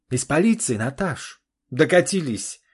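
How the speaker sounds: громко и зло, выше обычного; брось жене упрёк в ярости; гневно. Acted. Олег в гневе на жену. (муж упрекает жену, громко и зло)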